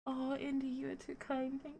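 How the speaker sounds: very soft, heartfelt gratitude; touched thanks. Real, not acted. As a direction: thank a friend quietly, overwhelmed by the gift. Overwhelmed by surprise birthday message.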